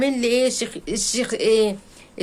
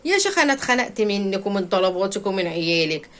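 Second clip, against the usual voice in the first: mock exasperated husband. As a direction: play the husband snapping at his wife. Husband scolding wife, mocked. (تقليد زوج زهقان بيزعق لمراته)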